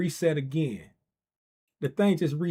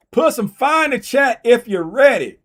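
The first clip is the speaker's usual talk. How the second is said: hyped urging; 8 semitones higher, 11 dB louder than usual. Real, not acted. Hyping chat for fire emojis.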